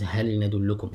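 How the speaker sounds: هل with a clear ل before ندلكم; izhar. Shown as a demonstration. Teacher gives students another example, izhar. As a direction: keep ل and ن apart in هل ندلكم. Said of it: "recite the lam with إظهار".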